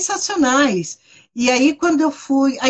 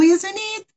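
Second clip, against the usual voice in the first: "isn't it" pitched up high on a rising tune; "isn't it" por extenso; 8 semitones higher than usual. Shown as a demonstration. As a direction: say "isn't it" in full, lilting upward. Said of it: "e não o". ("isn't it" cantado, bem agudo)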